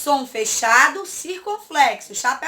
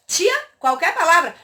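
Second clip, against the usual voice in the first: slightly raised questioning pupil voice; lightly voiced pupil; 3 semitones higher than usual. Pupil asks teacher about the task, lightly imitated.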